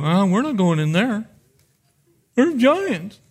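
mock whiny complaint; whining voice. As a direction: whine it like a sulky child. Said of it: "I'm using my whining voice right now".

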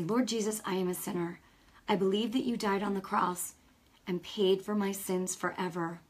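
steady, earnest prayer for the listeners to repeat; guided prayer. Acted. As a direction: lead the sinner's prayer phrase by phrase. Leads a sinner's prayer.

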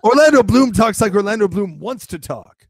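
half-hearted star impression in an American accent; Orlando Bloom. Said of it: "in a totally American accent too".

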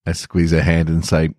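gentle podcast story reading; story narration. A narrator's reading. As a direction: read it like an intimate bedtime story. Reads a tender fiction story.

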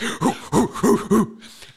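high, loud puffed hoots in quick bursts; imitated sprinting noises. Podcaster mimicking the principal sprinting down the hallway, high puffing bursts. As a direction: puff out short, high running sounds.

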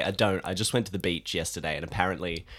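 congested, sick-sounding voice; stuffy nose. Real, not acted. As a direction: talk as if nose is blocked. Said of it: "I sound like I'm sick now".

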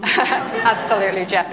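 slow, plummy posh drawl. Pretend. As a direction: put on a posh voice. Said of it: "It's me with my posh voice on".

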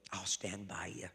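a wife whispering loyalty to her husband; whispered reassurance. Retold or imitated. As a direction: breathe it to him like a vow. Grandma reassures grandpa.

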